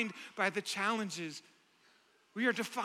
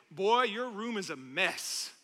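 higher, put-on accent for a distant, bossy God; lightly accented stern taskmaster; 5 semitones higher than usual. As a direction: order it like a demanding parent, in a light put-on accent. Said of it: "I put an accent there".

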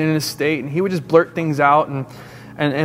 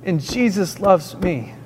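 put-on boy's steadfast declaration; slower than usual. Boy keeps on in hushed chapel.

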